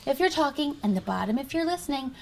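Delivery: soft unvoiced whisper; teacher whispering instructions. Real, not acted. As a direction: hush it for the class. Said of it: "I need you to whisper".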